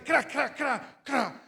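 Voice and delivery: crisp, repeated crunching noise; imitated cracking bones. Patient mimics the nurse stretching his foot, imitated cracking noise. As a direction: imitate a leg cracking as it's pulled. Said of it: "venía la enfermera a estirarme el pie".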